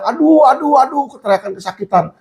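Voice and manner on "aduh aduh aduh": higher, half-voiced cries of "aduh"; mock cries of pain. Sick prisoner crying out in pain, lightly imitated. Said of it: "orang di situ teriak-teriak".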